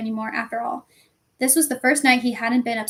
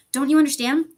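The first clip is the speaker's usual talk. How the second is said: louder, exasperated question; shouting; 3 semitones higher, 6 dB louder than usual. A narrator's reading. Boy argues with doubting friends, shouting. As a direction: demand that they understand. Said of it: "Harry shouted".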